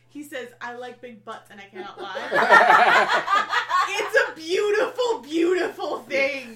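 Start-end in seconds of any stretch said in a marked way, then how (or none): 0.6-3.3 slow drawled lines through laughter; Alan Rickman impression. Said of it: "And in Rickman's voice". 3.9-6.6 laughing. Real, not acted. Laughing delight.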